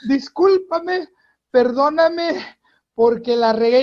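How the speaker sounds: high, pleading, embarrassed driver; a mock-mortified driver caught cursing; sheepish apology. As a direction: beg the pastor's pardon, flustered.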